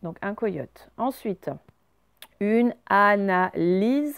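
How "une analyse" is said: "analyse" sounded out slowly, a-na-leez; slow, careful "analyse" without glide; Y read as I. Shown as a demonstration. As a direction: read "analyse" syllable by syllable, plain ee. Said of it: "c'est le Y vaut I".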